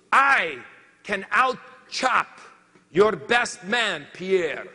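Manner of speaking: each word spelled out to prove he means it; defiant boast. Retold or imitated. Pipsqueak challenges the crew.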